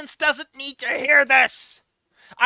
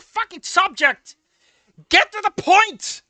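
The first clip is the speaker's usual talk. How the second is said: exasperated yell; 5 semitones higher, 3 dB louder, slower than usual. Real, not acted. Yelling at rambling character.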